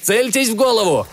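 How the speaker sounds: combat callout. A narrator's reading. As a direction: call it out mid-fight. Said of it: "крикнул Торнтон".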